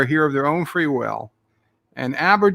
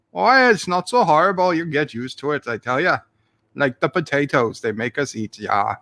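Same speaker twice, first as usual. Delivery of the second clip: hammed-up Aussie-tinged Irish accent; Aussie Irishman accent. Streamer defends his bad accent to chat, in Aussie Irishman accent. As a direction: put on a muddled Irish-Aussie brogue. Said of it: "the horrible Aussie Irishman accent".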